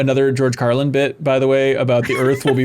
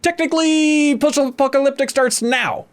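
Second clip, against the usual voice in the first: survivor voice; 10 semitones higher than usual. Retold or imitated.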